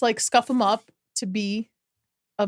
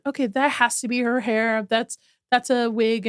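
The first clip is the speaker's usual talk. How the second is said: flat sure voice on that's a wig; certain verdict. Retold or imitated. Viewer judging the actor's hair, sure dismissive verdict. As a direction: state that's a wig as plain fact. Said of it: "it's like".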